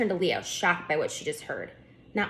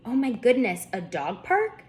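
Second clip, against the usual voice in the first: put-on girl bursting with excitement, much higher; excited; 6 semitones higher than usual. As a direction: squeal with delight at the dogs. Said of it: "Lucy said excitedly".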